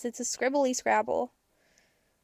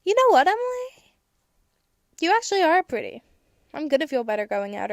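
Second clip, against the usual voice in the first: much higher, louder encouraging voice; kind self-talk; 4 semitones higher, 5 dB louder than usual. Retold or imitated. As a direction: cheer yourself on sweetly. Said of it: "if I was to say".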